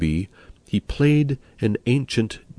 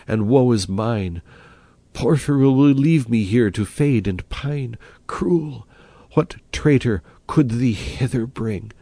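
lamenting Madeline; 3 semitones higher than usual. Acted. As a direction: cry out that you are forsaken. Madeline laments, voiced figure.

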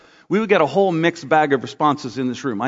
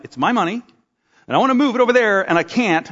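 mock furious rant; 4 semitones higher than usual. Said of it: "I'm getting furious 'cause I'm like".

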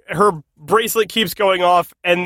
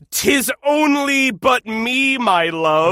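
mock Shakespearean lover; 3 semitones higher, slower than usual. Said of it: "the line he gives is".

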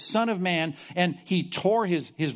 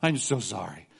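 mock apology; 2 semitones lower than usual. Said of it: "they go back and say".

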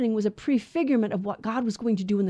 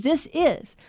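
IS lifted higher and stressed; 5 semitones higher than usual. Retold or imitated. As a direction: lean firmly on the word "is". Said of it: "He said".

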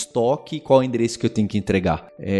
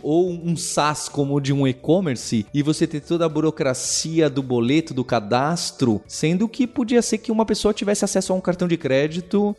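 ad read; 3 semitones higher than usual. Acted. Sponsor ad reads.

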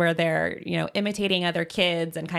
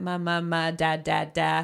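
babbling. Shown as a demonstration. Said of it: "you start to hear".

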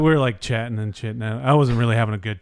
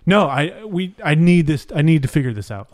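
imitating insistent refusal; 5 semitones higher than usual. Girl in the Uber refusing to move on, imitated insistence. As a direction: lightly imitate someone digging in.

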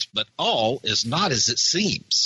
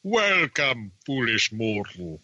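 low, creepy haunted house host; spooky ghost host voice; 3 semitones lower, slower than usual. Retold or imitated. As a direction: greet them like a sinister ghost host. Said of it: "Haunted Mansion".

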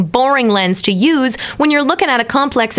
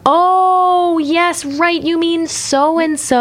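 mock knowing; 7 semitones higher, much slower than usual.

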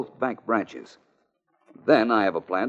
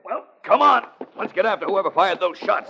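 urgent; 11 semitones higher, 4 dB louder than usual. Acted. Chasing the shooter.

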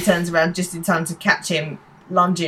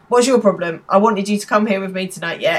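retold telling-off. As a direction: act out scolding someone, lightly. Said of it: "giving him a massive bollocking".

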